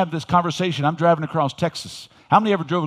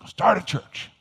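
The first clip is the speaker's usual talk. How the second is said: excited; 5 semitones higher, slower than usual. Retold or imitated. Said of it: "I was all excited".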